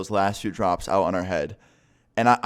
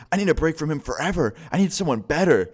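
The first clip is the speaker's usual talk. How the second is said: mock quarrel voice pitched way up; fed-up outburst; 8 semitones higher, 3 dB louder than usual. Girlfriend wants out of the couple's fight, mock angry outburst.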